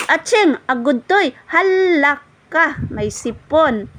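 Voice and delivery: put-on high, drawn-out baby talk. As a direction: coo in sympathy at the baby. Cooing to baby with cold. (malambing at mataas na boses sa sanggol)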